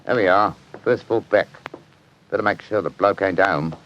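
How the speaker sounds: chatty put-on Cockney workman; casual Cockney small talk; Cockney accent. Inspector chatting to his mate Bertie, Cockney accent. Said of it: "My Cockney accent".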